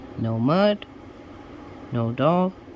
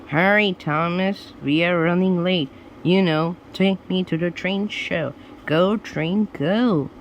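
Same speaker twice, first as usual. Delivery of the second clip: hurried judge; 4 semitones higher, 3 dB louder than usual. Acted. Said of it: "judge urging again".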